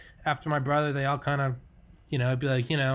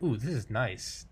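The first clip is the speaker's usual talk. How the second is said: softer, slow, savoring sigh of comfort; contented relief; 3 semitones lower, 5 dB quieter, slower than usual. Acted. Settling down by a campfire, softly contented. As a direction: sink into it, slowly and softly.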